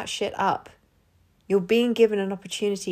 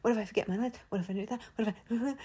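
anxious murmur; 3 semitones higher, 9 dB quieter, much faster than usual. Real, not acted. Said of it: "am I nervous".

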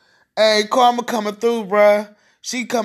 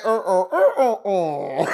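laughing; 3 semitones lower than usual. Real, not acted. Mimicking her fall, laughing.

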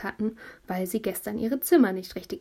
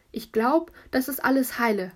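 a touch higher, amazed relief; astonished; 4 semitones higher, 4 dB louder than usual. Acted. Fallen boy checking himself, amazed. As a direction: marvel that nothing broke. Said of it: "hat er ganz erstaunt gesagt".

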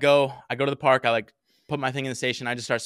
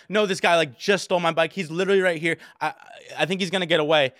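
higher-pitched, insistent retelling; urgent plea; 4 semitones higher than usual. Retold or imitated. Bike owner begging busy cops for help, urgent retold plea. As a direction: plead as if the thief is escaping.

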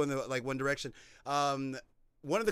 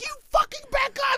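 high, loud retold shout; screaming argument; 4 dB louder than usual. Retelling a movie's road standoff, screamed. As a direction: yell it as in a furious car standoff. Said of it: "just screaming at each other".

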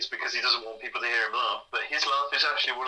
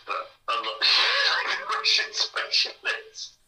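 slow, teasing whisper, half laughing; mock whisper; much slower than usual. Host teases co-host about his accents, in a slow mock whisper. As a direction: whisper it slowly as a joke.

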